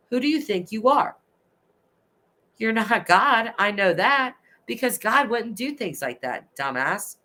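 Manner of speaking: fired up. Real, not acted. Ranting straight at abusers, fired up and angry. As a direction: let the anger boil over, pitch climbing. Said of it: "I get a little fired up".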